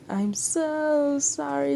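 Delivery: high, loud, slow pleading sorry; frantic apology. Acted. Kyoko apologizing to the Demon Lord, frantic. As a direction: beg forgiveness, voice straining.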